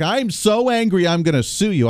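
host mocking a lame threat to sue, mock-indignant; mock outrage. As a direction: sneer it like a petty empty threat. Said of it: "Do you just like".

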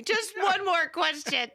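a hint of the rumpled detective; Columbo impression. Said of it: "I'll go out Columbo on you".

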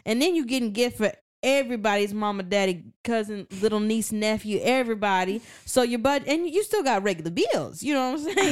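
lightly voiced old lady, complaining; a hint of a fussing grandma. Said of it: "your old lady voice".

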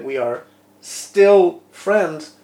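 "still" pressed slow and loud, in a lightly put-on envoy voice; stress on STILL. Echoing the Russian ambassador to his co-host, slow loud stress on "still". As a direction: mimic the ambassador, dragging out "still". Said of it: "as the Russian ambassador said".

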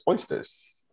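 Oysters breathed out as a whisper in disgust; grossed-out whispered Oysters. Real, not acted.

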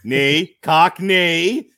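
Cockney drawn out, rising on the end; Cockney said playfully, rising tune; mock Cockney. Shown as a demonstration. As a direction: stretch out Cockney with a teasing lift. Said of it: "show me your Cockney".

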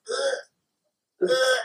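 high, small mock gags; imitated retching. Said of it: "she just kinda like".

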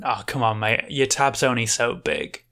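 a lightly voiced Aussie bartender, weary and firm. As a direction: cut the drunk off kindly but flatly.

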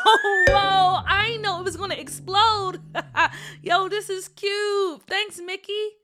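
put-on high, loud surprised kid; thrilled and amazed; surprised boy. Boy surprised by exploding card.

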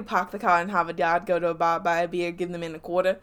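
Boston-style Northern accent, dropped R's. Shown as a demonstration. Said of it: "can't just speak in a Northern accent".

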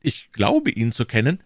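high, plaintive shopkeeper voice; anxious prisoner. Acted. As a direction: plead your case, pitched high. Anxious prisoner answers the commissioner.

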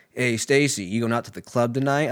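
mock sitcom line delivery; nineties sitcom friend. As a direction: call out like a nineties sitcom pal. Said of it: "always like a fucking nineties sitcom".

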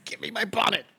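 high, put-on ghostly demand; mock ghost voice. Pretend ghost demands a bonnet, high hammed-up voice. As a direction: play a silly ghost wanting its bonnet. Hosts play-act a ghost gag.

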